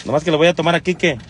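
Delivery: slightly hoarse voice; a bit husky from a sore throat. Real, not acted. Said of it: "ando medio ronco".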